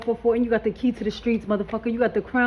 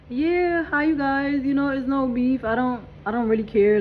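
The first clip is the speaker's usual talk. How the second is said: hide the anger behind sweetness; fake nice; 3 semitones higher than usual. Greeting the girlfriend with fake sweetness to hide real feelings. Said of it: "me hiding that, I'm like".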